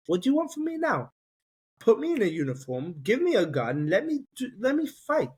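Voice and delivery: high-pitched desperate cry at heaven; retold yell to God. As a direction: cry out to God, pleading and fed up. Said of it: "I yelled to Hashem".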